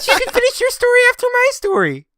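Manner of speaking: high, loud, bossy rant; domineering. Acted. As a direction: shout them down like an overbearing wife. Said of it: "you sound like an overbearing wife".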